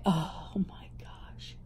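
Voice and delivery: breathless little whisper, slowed down. Real, not acted. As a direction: hush it like a delighted secret. Excited unboxing, whispered aside.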